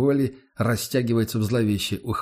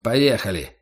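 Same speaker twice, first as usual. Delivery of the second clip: grumbled. Acted. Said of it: "бурчит один из них".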